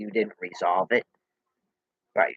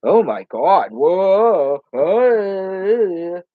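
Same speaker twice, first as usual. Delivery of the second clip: loud startled outburst; 8 semitones higher, 8 dB louder, much slower than usual. Real, not acted. Startled outburst during argument.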